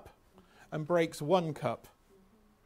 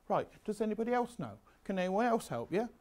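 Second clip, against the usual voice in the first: softer, quick, encouraging classroom prompt; calm teacher; 4 semitones higher, 4 dB quieter, faster than usual. Shown as a demonstration. Teacher modelling the approved way to ask, calm and soft. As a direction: gently open the question to the class. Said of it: "what I'm told to do is say".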